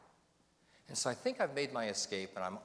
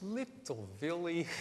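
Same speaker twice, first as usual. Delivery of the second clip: grandma's voice; 6 semitones higher than usual. Retold or imitated. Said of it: "She says".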